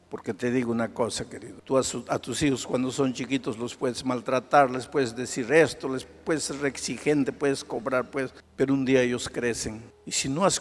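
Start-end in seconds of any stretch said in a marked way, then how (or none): none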